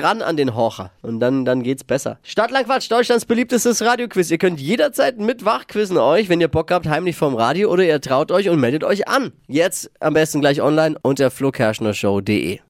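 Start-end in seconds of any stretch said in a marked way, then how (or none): 2.2-12.6 upbeat announcer pitch to listeners; lively station promo read; radio promo. Acted. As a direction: plug the quiz like a radio host. Reads out the show promo.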